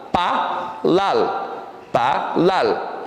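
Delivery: pa, lal, pa, lal split into separate syllables; teacher sounding out a Hebrew word. Shown as a demonstration. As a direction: sound out pa then lal slowly. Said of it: "Palal quer dizer orar".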